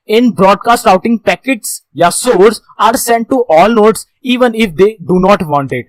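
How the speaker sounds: reads each English word very slowly; slow slide reading. Shown as a demonstration. Teacher reading the slide to students, very slow and deliberate. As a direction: dictate the slide line slowly to the class.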